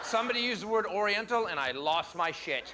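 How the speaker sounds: lightly voiced gushing liberal, fast at the start; a touch of breathless outrage; liberal impression. Comic doing a liberal for the conservatives, light gushing voice. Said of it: "my impression of the liver".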